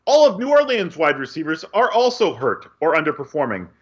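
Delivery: crisp sportscast news delivery; news read. Acted. Reads the news update segment.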